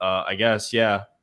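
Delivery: plain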